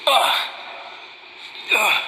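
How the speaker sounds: short groans of effort; pained groan. Acted. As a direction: groan as if hurt and struggling. Wounded soldier struggling alone.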